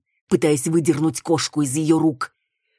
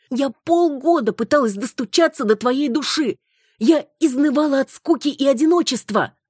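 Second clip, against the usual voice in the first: high, louder, wounded reproach; indignant wife tirade; 8 semitones higher, 3 dB louder than usual. Acted. Wife rants at her husband in a high, indignant voice. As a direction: hurl every grievance at him.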